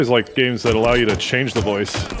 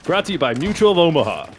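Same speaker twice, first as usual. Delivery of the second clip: radio ad read; 5 semitones higher, faster than usual. Pretend. Parody sponsor read on radio.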